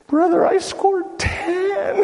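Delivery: high laughing brag; laughing boast. Retold or imitated. Congregant quoted boasting.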